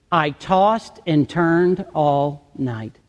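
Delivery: slow morning complaint. Acted. Troubled sleeper reporting the next morning, slow and low. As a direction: say it slowly, spacing out the words. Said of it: "you say something like this".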